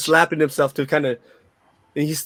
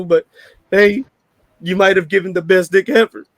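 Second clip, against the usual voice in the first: mock crying; 3 semitones higher, 4 dB louder than usual. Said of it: "and he's crying. He's like".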